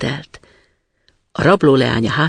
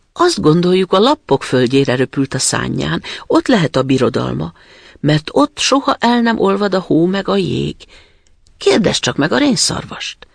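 pigeons answering; 5 semitones higher than usual. Acted.

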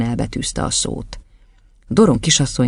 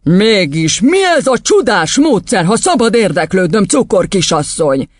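higher, pointed questioning; sarcastic headmistress; 6 semitones higher, 4 dB louder than usual. Acted. Headmistress turning on the teacher, mock-polite and pointed.

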